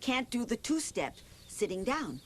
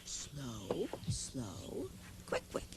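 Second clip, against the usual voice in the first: slow then quick count; 9 semitones lower, 11 dB quieter, much slower than usual. Shown as a demonstration. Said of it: "That's it".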